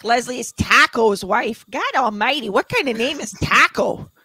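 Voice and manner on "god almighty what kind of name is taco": put-on Boston accent, mock exasperated; playful Boston-accent teasing. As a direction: lay on the Boston accent for a ribbing. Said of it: "I'll say something to her in the accent".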